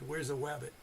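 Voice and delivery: wabbit with a W for the R, like Elmer Fudd; Elmer Fudd lisp. Retold or imitated. Teasing the radio man, Where's the wabbit in an Elmer Fudd voice. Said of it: "got his R's and his W's messed up".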